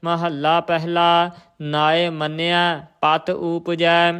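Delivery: measured Gurbani recitation on a level tone; intoned Sikh scripture reading. Shown as a demonstration. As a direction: recite the verse evenly, drawing out line endings.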